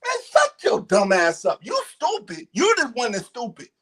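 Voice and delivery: real heated argument; furious berating. Real, not acted. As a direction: belittle him in real anger, ending in a shout. Final insults at the man.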